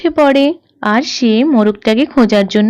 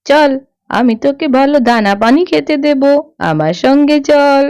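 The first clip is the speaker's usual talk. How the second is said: coaxing thief; 2 semitones lower than usual. Acted. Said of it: "এই বলে খেন্তি পিসি".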